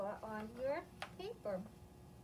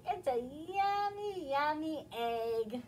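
coaxing sister; 4 semitones higher, 5 dB louder, slower than usual. Acted. Ruby coaxing Max to eat.

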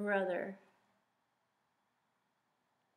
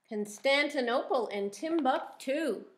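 read-aloud; 3 semitones higher, 4 dB louder than usual. Shown as a demonstration. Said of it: "Can you say that?".

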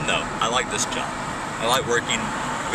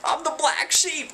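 much higher, slow sing-song; slow high comic proclamation; mock declaration; slower than usual. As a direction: announce it like a joke. Jokey exaggerated self label.

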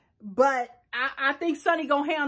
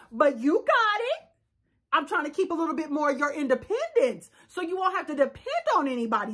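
nurse coaxing a patient, lightly played; patient, encouraging caregiver tone; patient-talk voice. Nurse talking Brian through undressing, mildly coaxing. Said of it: "I gotta talk to him like a patient".

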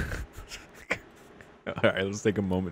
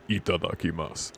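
lower-key, mock-intense itadakimasu; 3 semitones lower, 4 dB quieter than usual. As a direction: imitate a grimly intense grace before eating. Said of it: "Just intense as fuck".

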